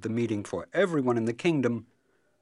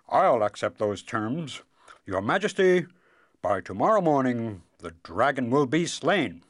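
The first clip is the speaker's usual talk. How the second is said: confident eldest son; 4 semitones higher, 8 dB louder than usual. Acted. Eldest son vows to the king.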